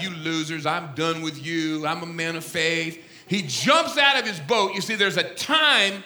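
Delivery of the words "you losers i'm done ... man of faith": low, softened self-talk; muttered private resolve, lower and softer; Peter's inner thought. Retold or imitated. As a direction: think aloud, dropped down and dismissive. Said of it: "Peter thinks to himself".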